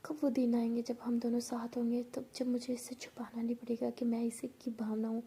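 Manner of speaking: whispery, lovestruck musing; happy daydreaming. Acted. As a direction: daydream aloud with longing. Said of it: "ऐसे सोच के बहुत ज़्यादा खुशी". (ख़ुशी से सपनों में खोई आवाज़)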